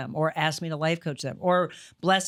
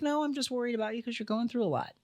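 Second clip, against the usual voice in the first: mom's reassurance; 6 semitones higher, 5 dB quieter, faster than usual. Retold or imitated. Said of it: "And she's like".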